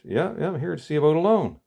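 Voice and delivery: bouncy frog pressing his point. Acted.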